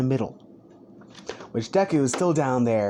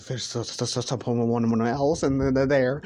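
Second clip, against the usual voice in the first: terrified stammer. Acted. Terrified Bakugo stammers, pointing.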